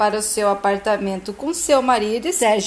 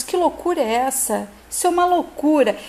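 mildly indignant retort, quickening at the end; indignant, rising in pitch as it goes; 4 semitones higher than usual. Acted. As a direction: act out understated indignation. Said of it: "Sérgio fica indignado".

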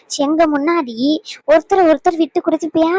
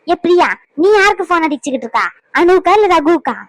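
louder, pointed challenge; sharp questioning; 3 semitones higher, 4 dB louder than usual. Acted. Mother-in-law confronts Priya about her calls, sharp questioning. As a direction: call her out sharply over the phone.

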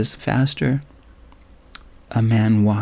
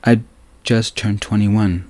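voice wavering. Acted. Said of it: "couldn't keep the waver out of my voice".

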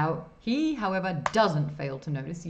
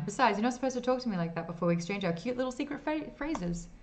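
dorky guy; 5 semitones higher than usual. Acted. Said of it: "says the dorky looking guy".

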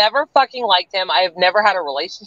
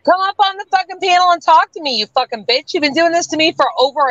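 furious challenge; 7 semitones higher, faster than usual. Real, not acted. Mother to troll over her kids, furious shouted challenge. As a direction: roar the dare at her.

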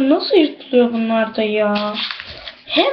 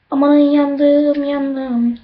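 talking with a burned tongue; words through a scalded tongue; 2 semitones higher, much slower than usual. Real, not acted. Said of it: "dilim yandı".

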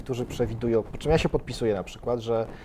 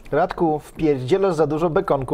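slow, loud nagging gadget voice; scolding phone voice; 4 semitones higher, 7 dB louder, slower than usual. Acted. A health app scolding Radek about bacon, slow loud nagging. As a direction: tell him off like a nagging app. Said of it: "on na przykład będzie mówił".

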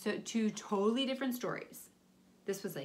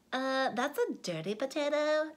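daughter voice; 3 semitones higher than usual. Acted. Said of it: "said the daughter".

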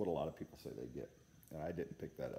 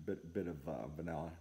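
speaking while smoking pipe; talking around pipe stem; 2 semitones lower, 3 dB quieter than usual. Real, not acted. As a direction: pipe clenched between lips. Seen 4: Orange pipe stem held between lips throughout the labelled words.

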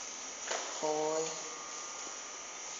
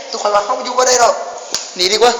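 panicked shout; 4 semitones higher than usual. Real, not acted. Flees the monster, shouting.

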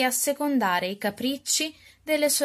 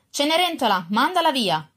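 higher, firm order; commanding stepmother; 5 semitones higher than usual. Acted. Stepmother orders Cinderella to send the beggar away, lightly stern. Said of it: "le intimò la matrigna".

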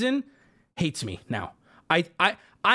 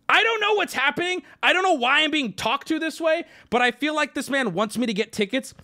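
high confused inner voice; baffled; 6 semitones higher than usual. Retold or imitated. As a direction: voice up high in disbelief. Inner thoughts, confused at clerk.

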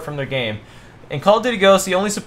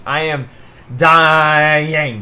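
overacted death scene; 6 dB louder, much slower than usual. Gamer hams up dying in-game.

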